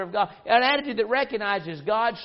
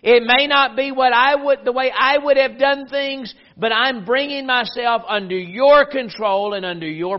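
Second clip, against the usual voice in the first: louder, pleading surrender to God; earnest prayer; 2 semitones higher, 6 dB louder than usual. Retold or imitated. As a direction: press the words out earnestly. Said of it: "It's the attitude that says".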